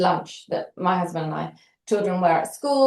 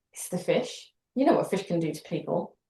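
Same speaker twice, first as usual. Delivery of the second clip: softer, muttered-to-self thought; quiet inner thought; 6 dB quieter than usual. Retold or imitated. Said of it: "I'm still thinking".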